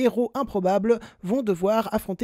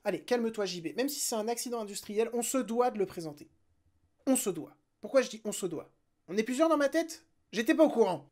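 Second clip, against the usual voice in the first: quiet aside to himself; 5 dB quieter than usual. Real, not acted.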